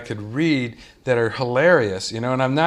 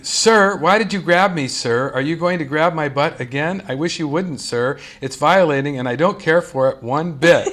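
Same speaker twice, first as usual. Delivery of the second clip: mock indignant yell; 3 semitones higher than usual. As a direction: read it out like a public telling-off.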